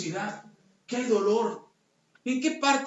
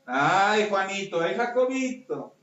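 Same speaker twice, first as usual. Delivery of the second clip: mock pouting; slower than usual. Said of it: "haciendo coraje".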